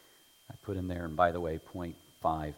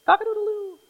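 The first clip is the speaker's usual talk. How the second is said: much higher, louder rooster call; playful imitation of a rooster crowing; 11 dB louder than usual. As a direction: crow it like a rooster. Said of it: "what's a rooster sound anyway".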